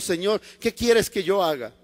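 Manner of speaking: usual speaking voice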